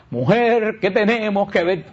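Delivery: churchy solemn reading of Mujer. Shown as a demonstration. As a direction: read it like lofty scripture. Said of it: "Cristo no hablaba con sole".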